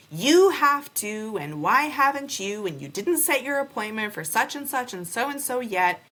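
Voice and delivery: high, pushy imitation of the clinic staff; mock nagging office voice. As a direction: parrot the office's demands with scorn.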